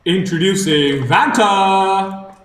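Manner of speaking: slow, booming arena announcer over a speaker; crackly commentator's box PA voice; tinny announcer voice. Acted. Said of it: "tinny, uh, voice from a commentator's box".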